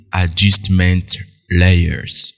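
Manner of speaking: English words in a French accent; imperfect English, French-accented pronunciation. Real, not acted. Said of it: "mon accent anglais, c'est pas terrible".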